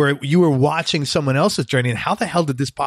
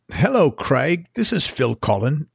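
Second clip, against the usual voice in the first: put-on a light Cockney accent on the phone; imitating a Cockney accent. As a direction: lightly mimic a Cockney caller. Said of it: "this thick Cockney accent".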